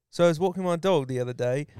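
plain-spoken English accent demo; everyday English accent, lightly done. Shown as a demonstration. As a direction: chat in a put-on English accent. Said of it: "different types of English accents".

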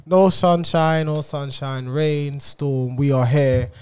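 slow, showy announcer intro. Acted. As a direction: announce it like a ringmaster.

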